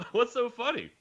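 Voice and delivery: high surprised co-teacher; co-teacher asking. Retold or imitated. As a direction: lightly voice the co-teacher. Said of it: "she's like".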